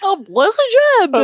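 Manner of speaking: slow, high mock-French; hammed-up French accent. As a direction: draw it out in a heavy French accent.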